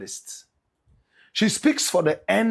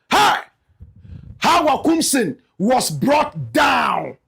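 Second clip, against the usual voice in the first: dramatic shout; 3 semitones higher, slower than usual. Acted. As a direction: declare it slowly like breaking news. Dramatic announcement of the fall.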